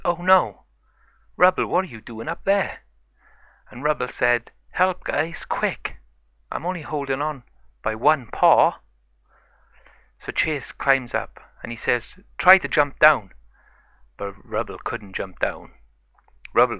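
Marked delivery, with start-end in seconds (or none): 0.0-2.8 higher, louder dismay; shocked pup. Acted. Chase finds Rubble stuck on the roof, shocked and louder. 4.7-8.8 higher, louder mock panic; playful cry for help. Stuck Rubble calls to his friends for help in higher mock panic. 12.4-13.3 louder call up to the roof. Acted. Chase calls up to Rubble on the roof, louder.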